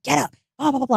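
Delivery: a hint of the boyfriend barking at her mom; mock angry order. Woman retelling the abusive boyfriend's order, mock angry. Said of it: "talking to my mom crazy".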